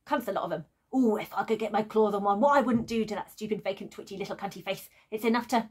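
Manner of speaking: lightly voiced straight-talking dog; a hint of a brash, foul-mouthed dog. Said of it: "his very brash, straight-talking dog voice".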